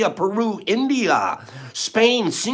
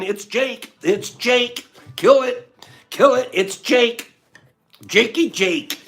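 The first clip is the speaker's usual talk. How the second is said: excited; 5 semitones higher than usual. Real, not acted. Excited winner announcement.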